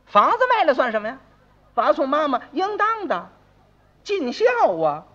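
high, breezy show of virtue; self-satisfied dismissal. Acted. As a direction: brush it off grandly. 二爷故作大方谈尽孝. (拉高嗓音、故作大方)

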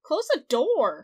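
loud, slow yell of Close the door; shouted line. Acted. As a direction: bellow it at them slowly. Yelling a line at a character.

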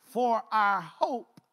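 slow, solemn psalm reading; scripture reading. Acted. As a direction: stretch each word of the verse like a prayer. Rereading the psalm.

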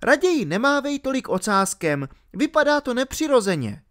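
put-on high-pitched girl snapping back; sharp retort. A narrator's reading. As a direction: snap back in a high girl's voice. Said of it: "odsekla mu Alenka". (odseknutí vysokým dívčím hlasem)

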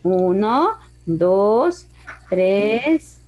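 measured count, each number stretched and rising; counting aloud. Shown as a demonstration. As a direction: count slowly along with the drawing. Teacher counts the sides while drawing.

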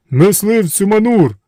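high, slow, loud genie shout; loud slow genie chorus; shouted in unison. A narrator's reading. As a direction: boom the title out. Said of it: "закричали вони разом".

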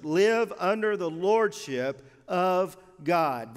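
slow, deliberate phrase landing on "lordship"; stress on lordship. Real, not acted. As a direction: stretch it out and lean firmly on "lordship". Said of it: "we're emphasizing the word lordship".

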